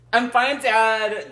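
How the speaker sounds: slow, loud shout; mock shout. Son answering his father across a stage, loud. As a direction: call out to your father. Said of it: "Darius shouted".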